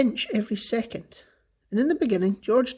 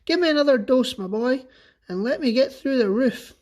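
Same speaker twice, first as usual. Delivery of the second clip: calling down; 4 semitones higher, 3 dB louder than usual. Acted. Grandma demanding from above.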